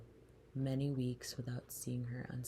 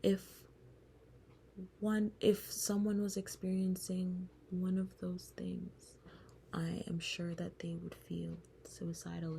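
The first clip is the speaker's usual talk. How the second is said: therapist quoted; 5 semitones higher than usual. Retold or imitated. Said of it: "And she would say".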